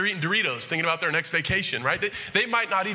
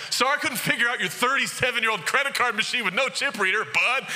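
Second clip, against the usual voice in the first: sarcastic retort; 5 semitones higher than usual. Retold or imitated. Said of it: "I'm, like, mad. I thought that".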